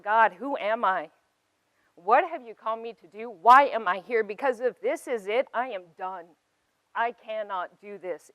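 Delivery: half-reliving a frustrated cry at the sky; retold desperate shout. Alone at her reflection, crying out to God in loud frustration. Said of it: "I remember shouting out".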